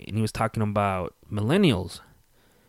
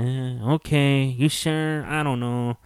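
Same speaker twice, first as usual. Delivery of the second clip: hesitant parent; 4 semitones higher, slower than usual. Retold or imitated. Modern parent shrugs off cohabiting.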